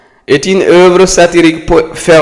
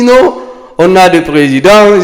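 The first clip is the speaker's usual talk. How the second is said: higher-pitched quoted objection; retold protest; 5 semitones higher than usual. Friend argues back that they have presidents, imitated higher-pitched protest.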